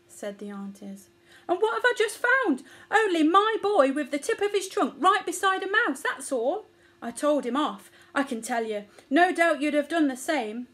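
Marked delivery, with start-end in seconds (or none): 1.5-10.7 high, loud tirade that settles slightly; outraged mother elephant. A narrator's reading. Mother telling the aunties of boy beside mouse, outraged. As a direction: complain in scandalised indignation.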